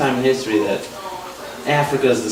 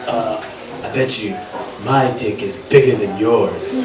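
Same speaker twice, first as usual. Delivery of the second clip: mock heckler; 4 semitones lower than usual. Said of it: "He just yelling at me".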